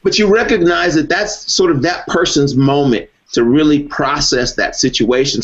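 ordinary talk

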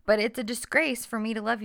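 high-pitched mock reasonableness; sarcastic retort. Sarcastic boyfriend's retort acted out.

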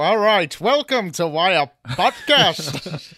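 slow, grand radio host voice; old-timey announcer. Acted. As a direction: announce it like a newsreel. Restarts intro in 1920s voice.

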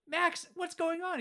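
high, slow, bewildered mock voice; confused dad. Dad asking Max what's happening, mock bewildered. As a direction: drag it out like a baffled parent. Retelling the dad's line.

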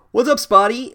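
high, loud teasing jab; mock taunting. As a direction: play the bully needling a victim. Peeves taunts crying Myrtle.

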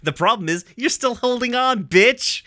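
high villainous taunt, loud on the last word; mock villain, building to a loud punch; Navy. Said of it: "And Navy's like".

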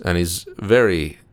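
slow, smooth, lightly voiced Billy Dee Williams; Billy Dee Williams impression. Reviewer imitating Billy Dee Williams's slow smooth delivery. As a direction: drawl each word out, smooth and easy. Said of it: "and he talks kind of like this".

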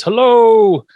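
high, loud, drawn-out mock yell; retold scream. Recapping Herman shut inside the sarcophagus, mock scream. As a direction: holler it long, imitating a scream. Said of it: "Herman screams".

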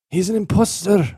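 high announcing voice; lightly voiced professor; mock serious. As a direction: blurt it out high. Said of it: "he's like".

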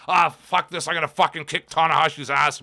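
mock tough-guy rant; Jericho. Mocking his repetitive Japan promos, half-hearted imitated rant. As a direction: parody a swearing promo, fading into dismissal. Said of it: "same with Jericho in New Japan".

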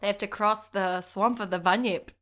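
playful put-on Aussie accent; mock Australian accent. Host joking about monsters ringing Australia, mock Aussie accent.

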